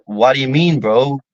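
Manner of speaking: lightly imitated monotone delivery; mock monotone. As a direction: imitate someone who talks with little expression. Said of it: "they come across monotone".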